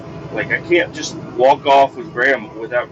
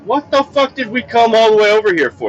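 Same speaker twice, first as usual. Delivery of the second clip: high-pitched outraged rant; exasperated rant; 7 semitones higher than usual. Retold or imitated. Dad fuming about the pointless walk, exasperated rant. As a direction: vent the fury of a wasted trip. Ranting at wasted trek.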